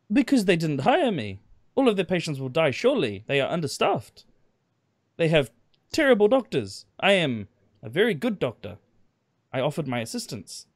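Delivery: put-on broken German accent. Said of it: "in the broken German".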